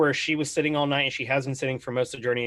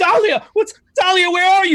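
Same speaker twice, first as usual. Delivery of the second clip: very high, very loud, shrill, frantic panicked screams; 9 dB louder than usual. A storyteller voices a man calling for his fiancée dahlia, screaming. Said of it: "he just starts screaming".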